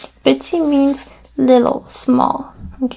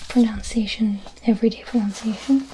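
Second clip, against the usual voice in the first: soft whispered pronunciation; whispered aside; 5 dB quieter than usual. Real, not acted. Teacher adds a hushed aside. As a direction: drop to a whisper. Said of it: "explaining pronunciation".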